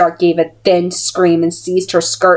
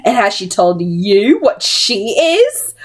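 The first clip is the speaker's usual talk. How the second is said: demanding villainess; 2 semitones higher, slower than usual. Acted. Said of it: "Missus Black demanded".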